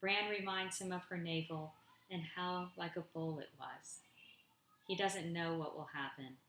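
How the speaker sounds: measured poem recital, falling line ends; poetry reading. Acted. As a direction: read it line by line with pauses. Reads own poem aloud.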